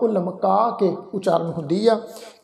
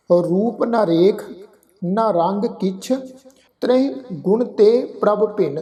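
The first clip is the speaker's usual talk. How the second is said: slow scripture recitation; slower than usual. Shown as a demonstration. Demo recitation of the verse.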